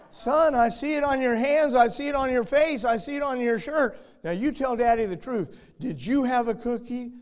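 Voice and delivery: stern father. Retold or imitated. Father scolding son in story.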